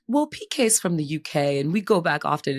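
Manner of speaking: imitating a put-on British accent; fake British accent. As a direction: mimic her bad British accent. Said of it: "she does this British accent".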